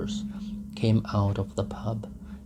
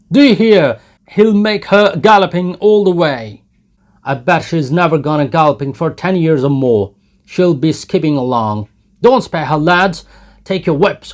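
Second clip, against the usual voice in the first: jeering crowd; 8 semitones higher, 13 dB louder than usual. Acted. Jeering crowd eggs them on.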